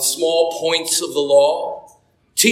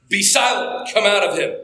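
commanding rebuke. Acted. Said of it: "Jesus shouts back in an even scarier voice".

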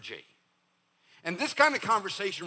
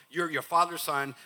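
quick item in a running list; rapid recital. Shown as a demonstration. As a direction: rattle it off without pausing. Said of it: "let me just say these all real fast".

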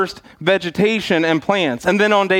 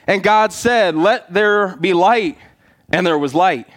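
booming biblical narration. Acted. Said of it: "We didn't practice that one".

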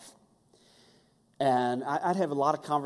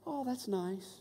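unimpressed; 7 semitones higher, 6 dB quieter, slower than usual. Retold or imitated. Grandma's flat reply.

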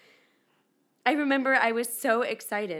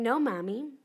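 put-on kids' whine; 6 dB louder, slower than usual. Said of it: "they kept saying".

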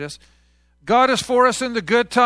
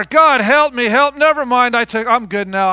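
louder, hurried change of mind; mock brush-off; 6 dB louder than usual. Preacher mocking how we drop God, louder and quick. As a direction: cry for help then shrug it off. Mocking self-reliant people.

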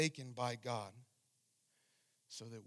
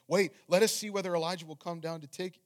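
raised voice, higher and louder; a reader's lifted voice for an urgent call; bystander calling out; 6 semitones higher, 14 dB louder than usual. A narrator's reading. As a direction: call it out to the crowd. Bystander's call read from scripture.

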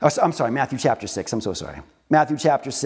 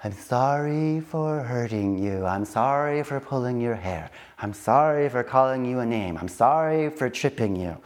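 sincere apology; 5 semitones lower than usual. Shown as a demonstration. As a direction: show the kid what a heartfelt sorry sounds like. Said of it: "Say it like you mean it".

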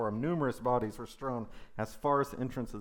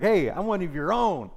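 high, loud call to the crowd; rallying crowd appeal; 8 semitones higher, 10 dB louder than usual. Acted. Rival pitching himself to the crowd, loud rallying appeal.

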